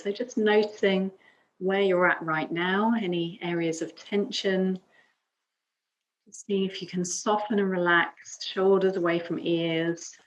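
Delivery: calm yoga teacher's guiding voice, long pauses between phrases; guided meditation. Acted. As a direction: guide them gently into breath and stillness. Leads calm breathing and affirmation.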